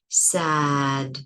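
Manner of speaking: "sad" ending on a stopped d; slow "sad" with a closed d; final stop. Shown as a demonstration. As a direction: cut "sad" off at the d. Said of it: "the D I can't continue".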